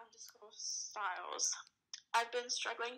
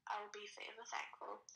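whispered; 6 dB quieter than usual. Acted. Reading tweet.

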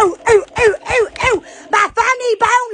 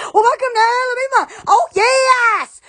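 loud catchphrase; 4 semitones higher, 4 dB louder than usual. Acted. Catchphrase greeting repeated.

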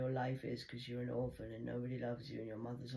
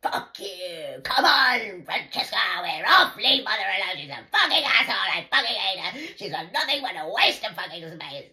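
much higher, much louder furious shout; imitating daughter yelling; 7 semitones higher, 14 dB louder than usual. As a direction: storm off screaming abuse. Voicing daughter storming off.

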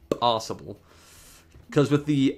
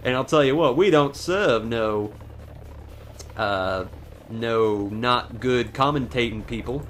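mock Southern gentleman accent, unhurried. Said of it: "I turned into a southern gentleman".

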